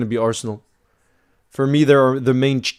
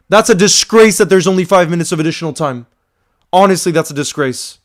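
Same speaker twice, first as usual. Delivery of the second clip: ordinary delivery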